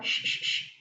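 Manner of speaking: soft unvoiced shush to silence the room; shushing whisper. A narrator's reading. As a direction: whisper shh, warning everyone. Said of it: "उंगली होठों पर रखकर". (फुसफुसाकर श श करना)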